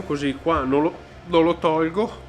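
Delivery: hiccup breaking the words; hiccuping mid-sentence. Real, not acted. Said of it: "Madonna, sto singhiozzo".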